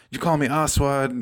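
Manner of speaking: put-on Arabic accent coming through. A speaker repeats what a man said when he stopped the game; imitating his accent. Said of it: "the accent comes out".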